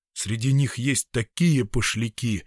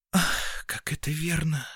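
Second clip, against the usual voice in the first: softer, breathy sigh into the words; 4 semitones higher, 4 dB quieter than usual. Acted. Girl agrees with a soft sigh. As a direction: let it out on a sigh. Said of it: "вздохнула девушка".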